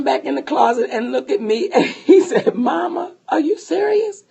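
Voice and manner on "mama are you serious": mildly incredulous, higher-pitched question; disbelief. Retold or imitated. Husband to his upset wife in the closet, mild disbelief.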